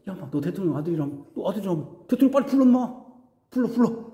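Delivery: goading sneer, demanding he call his father; a thug's mocking dare; taunting jeer. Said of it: "그래갖고 내가 얘기해". (빈정대며 도발하는 말투)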